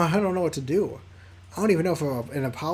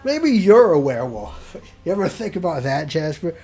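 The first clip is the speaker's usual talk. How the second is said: loud accusation; 7 dB louder than usual. Acted. Accusing the swear-jar player.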